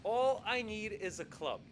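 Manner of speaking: steady, decided, falling close; firm request. Retold or imitated. Palmer answering the king's question, firm and sure. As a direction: settle it, this is all he wants. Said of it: "So he just says".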